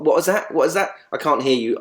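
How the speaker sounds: feigned puzzlement, pitch lifted; mock incomprehension. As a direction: act lightly baffled, as if you can't hear. Mock failing to understand an accent.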